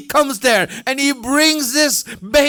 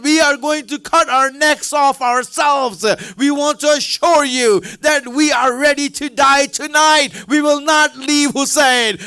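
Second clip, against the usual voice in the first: shouting vow. Acted. Ladies vow to die, shouting.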